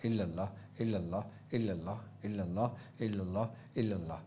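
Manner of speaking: very soft, low, even chant; inward dhikr. Shown as a demonstration. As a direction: repeat evenly under the voice, bead by bead. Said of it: "तस्बीह पढ़ते रहना". (बहुत धीमी, नीची आवाज़ में लगातार ज़िक्र)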